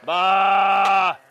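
calling sheep. Real, not acted.

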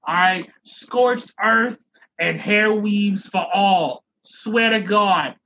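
a touch of a scorned ex's rant; lightly voiced vengeful ex. Host plays the storm as weird ex, mock threatening. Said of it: "like that weird ex".

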